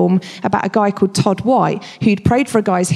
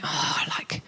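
disappointed inner thought; 5 semitones lower, 13 dB quieter than usual. Retold or imitated. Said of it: "I came out of that situation thinking".

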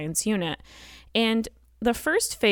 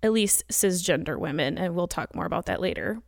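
breathless, rushing through words; out of breath while talking. Real, not acted. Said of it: "I'm out of breath because I'm pregnant".

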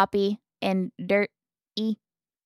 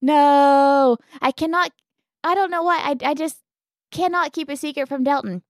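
panicked; 5 semitones higher, 4 dB louder than usual. Retold or imitated. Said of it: "I was like".

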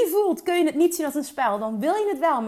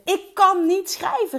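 louder, higher, drawn-out exclamation; retold loud cry; 6 semitones higher, 5 dB louder, slower than usual. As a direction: call it out loud, stretching the words. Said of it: "riep ik heel hard".

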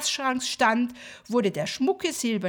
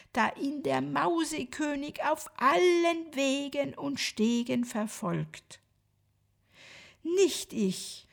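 gentle voice. Acted. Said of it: "sprach mit sanfter Stimme".

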